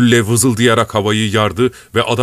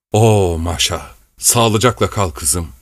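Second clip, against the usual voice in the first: hoarse voice; 2 semitones lower, slower than usual. Acted. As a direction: say goodbye hoarsely to your daughter. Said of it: "Boğuk bir sesle". (kızına boğuk sesle veda eden baba)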